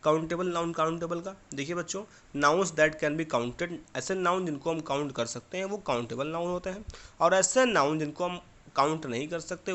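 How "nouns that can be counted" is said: extremely slow, each word stretched; slow dictation. Shown as a demonstration. Teacher dictating the definition for the pupils' notebooks.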